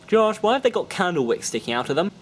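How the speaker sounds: put-on a little kid dragging out the words; curious kid. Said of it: "kid voice".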